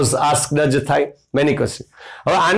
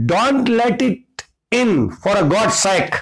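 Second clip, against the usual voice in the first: mock fearful cry; 5 semitones higher, much slower than usual. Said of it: "cried mister White shivering in fear".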